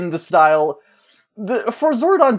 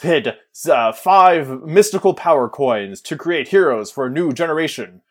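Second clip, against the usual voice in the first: lightly lowered grand wizard voice; Zordon voiceover; 3 semitones lower than usual. Acted. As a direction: proclaim it like an epic prologue. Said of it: "Just go all in".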